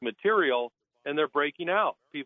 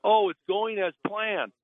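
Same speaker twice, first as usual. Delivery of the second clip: higher, slow, smug official reassurance; drawn-out mocking imitation of a bland promise; 6 semitones higher, slower than usual. Mocking the dam official to the board, higher and slow. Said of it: "he keeps telling the board".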